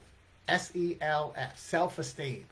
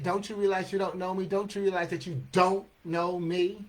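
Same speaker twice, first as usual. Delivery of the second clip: rapid-fire verse, words tumbling out; poem recital; 2 semitones higher, faster than usual. Acted. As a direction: race through the tongue-twisting lines to a firm finish.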